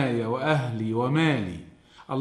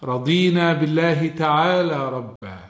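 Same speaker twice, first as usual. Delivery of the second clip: devout prayer, rising and falling in force; evening supplication. Acted. Preacher reciting the evening supplication to listeners, devout. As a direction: pray it out earnestly, swelling on يا ربي.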